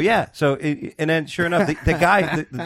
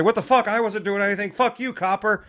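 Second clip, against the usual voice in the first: mock defiant retort; 8 semitones higher than usual. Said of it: "I'm not gonna say".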